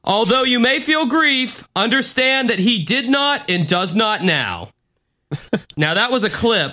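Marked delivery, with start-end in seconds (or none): 0.0-4.7 higher solemn spokesperson read; mock solemn announcement. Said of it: "He sounds like a spokesperson".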